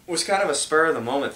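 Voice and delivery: talking through a burp; words broken by a burp. Real, not acted. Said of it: "Sorry, I can't stop burping".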